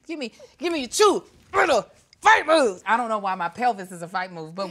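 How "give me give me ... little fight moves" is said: playful demand. Pretend. Playfully demanding fight moves, calling out.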